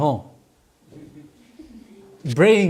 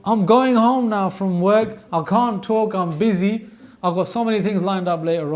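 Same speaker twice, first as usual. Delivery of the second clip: loud, showy announcement to the whole carriage; a commuter broadcasting his phone call, loud and showy; loud phone talker; 3 semitones higher, 5 dB louder than usual. Retold or imitated. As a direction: make sure everyone on the train hears you. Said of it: "they want everyone to know they're on the phone".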